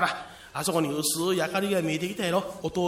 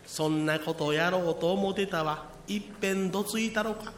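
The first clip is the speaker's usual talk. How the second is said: put-on creaky wise old man; 3 semitones lower, 5 dB quieter than usual. Posing as Yakushi, threatening.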